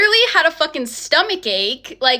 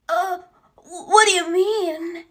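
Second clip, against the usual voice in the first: higher, stammering imitation of scared boyfriend; hammed-up nervous, drawn-out stammer; mock nervous; 5 semitones higher, slower than usual. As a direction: stutter it out like you've been caught. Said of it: "so fucking nervous, shaking in his boots".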